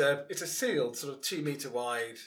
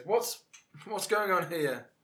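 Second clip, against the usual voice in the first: louder, higher, drawn-out demand; official challenge; 5 semitones higher, 6 dB louder, slower than usual. Acted. Marshal at the foot of the stairs, loud slow challenge. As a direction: call out as the arriving marshal. Roleplays marshal arriving at a disturbance.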